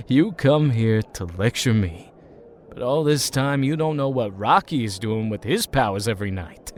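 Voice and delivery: low, soft, fast and conspiratorial; a drunk friend taunting quietly with a secret. Acted. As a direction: let the secret slip low and sly. Tommy lowers voice, taunting secret.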